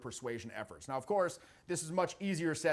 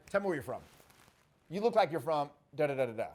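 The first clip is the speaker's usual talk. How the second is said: sassy confident command; 2 semitones lower, faster than usual. Shown as a demonstration.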